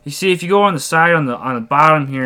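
lightly voiced truck enthusiast; moving-truck guy. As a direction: imitate a stranger pitching truck modifications. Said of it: "He goes".

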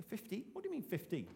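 a mock puzzled "Fifteen?" with the question lifting; incredulous question. A congregant doubting the target, mildly incredulous. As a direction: echo "Fifteen?" as an imagined doubter would. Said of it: "They say".

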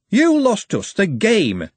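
slow, high, pointed blame; slow accusation. Acted. Hoggett blaming Andy for losing, slow and pointed. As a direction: lay the blame on him deliberately.

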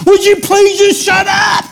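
pleading, fed-up shout; exasperated yell. Acted. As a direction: shout it like you've had enough. Acts out exasperated yell at screamer.

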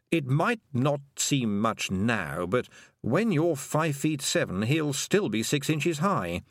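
slow, drawn-out toad voice; unhurried talking toad; matter-of-fact toad. Acted. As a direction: explain it slowly as a toad.

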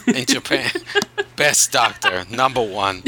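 badly faked Japanese accent, choppy phrases; mock Japanese accent. Podcaster teasing co-host about impressions, mock Japanese accent. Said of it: "you can do any accent you want".

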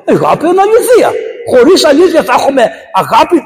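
emphatic. Real, not acted. Preacher stresses love in truth.

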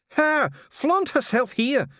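high, loud, slow, venom sprayed on her; venomous. Acted. Dee sneers at Cheery, spitting venom. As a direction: spit the word her out with loathing. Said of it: "a word sprayed with so much venom".

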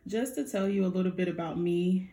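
nervous shaky voice; shaky vibrating voice. Real, not acted. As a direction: voice trembling with nerves. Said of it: "my voice is shaking".

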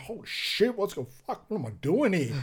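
hammed-up terror at the plane door; retold panic. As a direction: relive the shock of the open door.

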